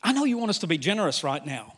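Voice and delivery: lightly voiced anxious protest, growing insistent; worried believer pleading. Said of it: "you go".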